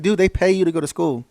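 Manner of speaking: rally them to go get a degree; fired-up advice. Retold or imitated. Veteran urging people getting out, loud and high. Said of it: "It's like".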